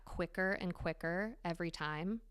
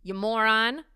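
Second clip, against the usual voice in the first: mock scolding, louder; self-scolding; 4 semitones higher, 7 dB louder than usual. Berating herself by name, mock scolding. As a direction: call yourself a moron, half in jest. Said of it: "Almost being like".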